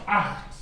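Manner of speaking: acht with a hard throat "kh" before the t; correct German pronunciation. Shown as a demonstration. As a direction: model acht as "akht". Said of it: "It's pronounced".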